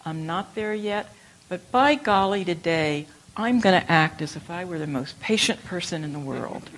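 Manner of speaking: loud, resolute vow to oneself; a hearty "by golly" pledge; determined vow. Pretend. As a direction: declare it with sudden gusto. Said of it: "You can say".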